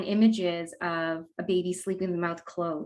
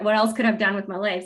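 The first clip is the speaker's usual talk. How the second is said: laughing; 5 dB louder, faster than usual. Real, not acted. Laughs at own lost potential.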